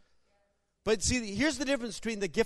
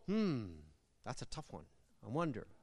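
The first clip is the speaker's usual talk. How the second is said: unsure teacher; 10 semitones lower, 15 dB quieter than usual. Retold or imitated. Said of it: "you wouldn't go".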